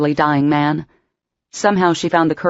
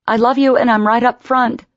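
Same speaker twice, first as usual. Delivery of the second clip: higher, louder cry; tearful cry; 7 semitones higher, 3 dB louder than usual. Acted. Emma crying to Patrick from the ambulance doors, tearful. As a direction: call after him as she's pulled away. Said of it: "she cried again".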